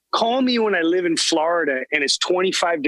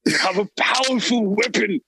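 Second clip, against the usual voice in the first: scheming English lord voice; posh British villain plotting; English accent; 3 semitones higher than usual. Acted. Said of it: "I heard an English accent".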